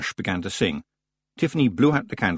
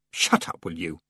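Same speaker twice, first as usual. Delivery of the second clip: snapping; 5 semitones lower, 4 dB quieter than usual. Acted. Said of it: "snapped Tiffany".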